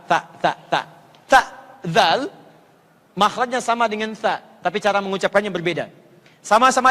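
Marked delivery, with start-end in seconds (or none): 0.1-0.8 "ta" with the tongue behind the teeth, not bitten; plain "ta" set against "zal"; letter ta. Shown as a demonstration. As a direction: contrast sound "ta". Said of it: "Hampir sama dengan ta".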